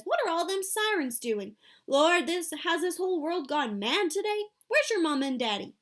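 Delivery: a grandmother frightened by sirens; alarmed Grandma Sands. A narrator's reading.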